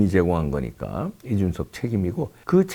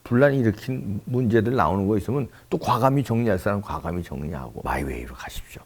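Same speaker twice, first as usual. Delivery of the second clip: ordinary delivery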